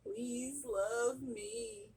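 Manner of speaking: high, slow, drawn-out mock wailing prayer; hammed-up wailing fit. Mom pleading with Jesus over her sick kids, hammed-up wailing. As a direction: throw a theatrical fit begging Jesus for rescue. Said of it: "I hope y'all enjoyed my little fit".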